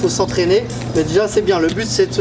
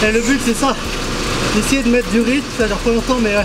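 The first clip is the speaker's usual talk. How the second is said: winded after the run; puffing between words; out of breath; 4 semitones higher than usual. Real, not acted. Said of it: "je suis cramé".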